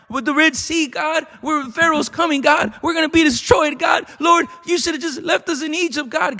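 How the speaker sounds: high, frantic cry to God; desperate wail. Acted. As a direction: wail like a trapped man begging. Moses wailing to God.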